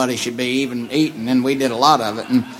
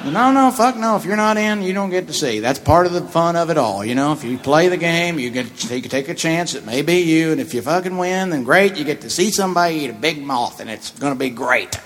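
heated mock lecture; 3 semitones higher than usual. Refusing a poker player, heated.

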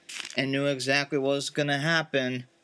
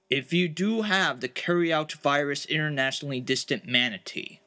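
much lower, darker voice; deep real voice; 3 semitones lower than usual. Acted. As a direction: drop into a low, grave voice. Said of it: "this is more of my real voice".

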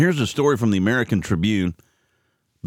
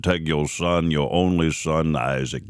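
God voiced much lower, slow on your only son; deep voice of God; 6 semitones lower, slower than usual. Host retelling Genesis, lightly voicing God deep and slow. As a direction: sink low like a booming God. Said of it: "God talks like that to deep boys".

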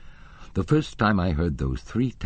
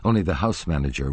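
plain reading voice

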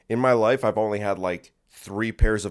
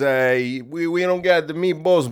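higher, halting store clerk; dopey clerk voice; 6 semitones higher, 4 dB louder than usual. Retold or imitated. Clerk answering him at the store, a higher dopey voice. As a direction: play the dim clerk stumbling. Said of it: "He says".

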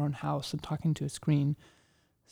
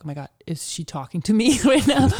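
louder, laughing mock disbelief; mock shocked onlooker; 5 semitones higher, 8 dB louder than usual. Imitating people shocked she talks back, laughing. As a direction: play the stunned bystander, laughing.

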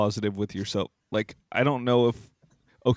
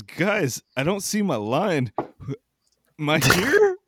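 stoner; 6 semitones higher, slower than usual. Retold or imitated. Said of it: "He goes".

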